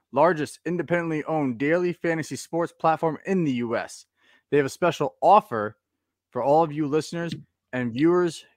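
upbeat sponsor read. Acted. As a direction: read the promo like a radio spot.

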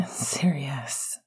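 low, airy murmur of a name; breathed. A narrator's reading. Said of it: "Remus breathed".

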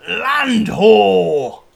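loud, hearty pirate call; pirate shout. Acted. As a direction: bellow it from the deck. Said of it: "Rockhopper shouting".

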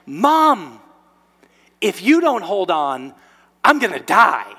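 loud, strained kitten voice; comic loud kitten plea; kitten being carried. Retold or imitated. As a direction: whine it out as a dangling kitten. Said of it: "the cat's like".

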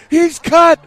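shouting it like a fight announcer; big ringside call, high and loud; Rocky announcer yell. Retold or imitated. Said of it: "and they're like".

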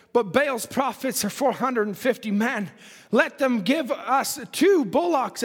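declaimed Bible verse; scripture reading. Acted. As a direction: read scripture out to a congregation. Reads scripture in preaching voice.

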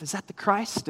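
acting out disciples whispering among themselves; imitated whisper. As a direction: drop the volume, as if asking a companion. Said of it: "begin to whisper amongst themselves".

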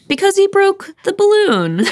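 very high, hammed-up lament; playful high-voiced wail; mock wailing. Mock wailing over broken balloon.

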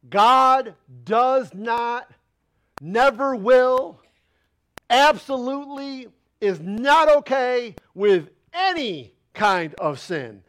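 slow, deliberate, word by word; fervent preacher pounding the point; passionate emphasis. Real, not acted. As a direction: hammer each word home. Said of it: "I'm getting loud right now".

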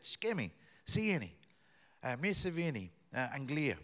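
put-on bright greeting in Albanian with an English accent. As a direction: call out a cheerful Albanian hello. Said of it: "my bad grammar and my bad accent".

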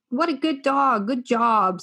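dog voice. Acted. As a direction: cheer a good dog on. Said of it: "And in that voice in particular".

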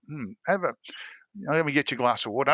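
a hint of a concerned older lady; receptionist. Receptionist voiced in story.

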